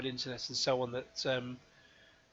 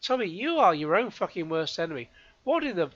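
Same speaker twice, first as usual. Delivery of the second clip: loud, incredulous swearing; exasperated; 2 semitones higher, 5 dB louder than usual. Real, not acted. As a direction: let rip in disbelief. Exasperated reaction to statement.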